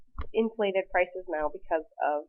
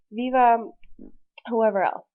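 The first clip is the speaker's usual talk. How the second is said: loud, high ringing cry; governor's shout; 4 semitones higher, 7 dB louder than usual. Retold or imitated. Teacher imitating the governor calling out heroes, loud. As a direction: shout the hero's name out.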